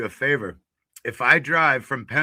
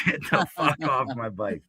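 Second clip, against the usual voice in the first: laughing through the retold line; laughing retelling. Retelling the fall to the host, laughing. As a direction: repeat the line while laughing at it. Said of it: "retold again, laughing".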